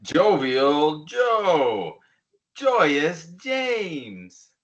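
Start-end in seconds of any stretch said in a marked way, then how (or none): 2.5-4.5 drawn-out, swooping name call; lightly hammed-up joy; mock joyous. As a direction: sing it out with playful joy. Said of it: "passing the emotion that goes to it".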